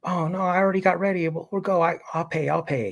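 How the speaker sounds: put-on girlfriend voice, high and eager, offering to pay. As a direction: chirp it out like a keen girlfriend who insists on paying. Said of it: "And she's like".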